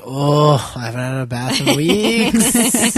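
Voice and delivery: slow, drawn-out lament as a dog; voiced ashamed dog. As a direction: lightly act a dog owning up, stretching the words. Voicing an ashamed, unwashed dog.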